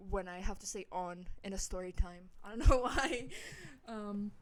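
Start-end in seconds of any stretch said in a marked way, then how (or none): 0.9-1.3 "on" with a New York vowel; New York accent. Real, not acted. Storyteller explaining their slip, New York accent on "on". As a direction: turn New Yorker on the word "on". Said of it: "all of a sudden become a New Yorker".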